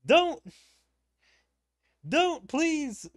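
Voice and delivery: high, loud, real begging; pleading cries. Real, not acted. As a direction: beg out loud in dismay. Player dreads the item has failed.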